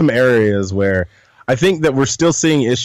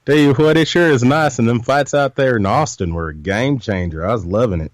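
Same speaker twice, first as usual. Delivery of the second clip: light hammed-up Texas drawl, folksy greeting; a cowboy howdy in a mild Texas twang; put-on Texas drawl; 2 semitones higher than usual. Cohost greets the host in a mock Texas drawl. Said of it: "I can't do this the rest of the show".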